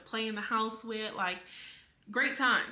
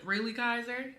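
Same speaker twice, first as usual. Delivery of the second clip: quoted question, close to the usual voice; amused disbelief. Retold or imitated. Retelling a partner's reaction to the child's scratch, mildly amused disbelief. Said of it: "King was laughing as well".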